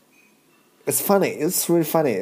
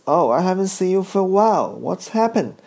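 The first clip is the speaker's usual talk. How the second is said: lightly voiced old man, higher pitch; higher-pitched greeting, lightly imitating an old acquaintance; old Chinese guy; 7 semitones higher, faster than usual. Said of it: "one old Chinese guy".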